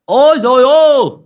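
high, loud yell to the whole village; a loud, high village cry; shouting out. Acted. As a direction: holler it over the wall to rouse everyone. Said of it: "lóc cóc trèo tường ra ngoài hô".

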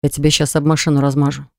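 low, understated threat forced between teeth; through gritted teeth. Acted. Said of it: "процедил сквозь зубы".

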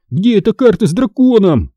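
high-pitched frantic question; narrated yell. A narrator's reading. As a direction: cry out the question, not at full volume. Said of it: "заорал я". (высокий отчаянный выкрик вполсилы)

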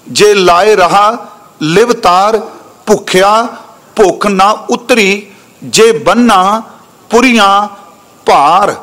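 slow, measured recital of a sacred verse; scripture recitation. Acted. Preacher recites the verse to the congregation, slow and solemn. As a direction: draw each line out with reverence.

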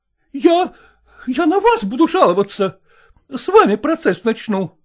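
high, loud, scolding woman's voice; indignant madam. A narrator's reading. Zoya challenging Selezenkin, high and indignant. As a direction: demand it like an outraged choir mistress.

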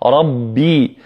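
ربي with a strong voiced bb; doubled ba. Shown as a demonstration. Teacher modelling the correct doubled ب in ربي. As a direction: hold and release the ب of ربي firmly. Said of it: "ولا بد من تشديدها".

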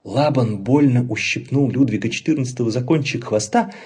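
ordinary delivery

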